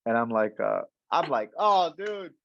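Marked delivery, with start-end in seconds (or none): 1.6-2.3 high, drawn-out, gushing list of names; hyped name-dropping. Retold or imitated. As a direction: reel off idols slowly, relishing each. Eagerly lists mentors to the CEO.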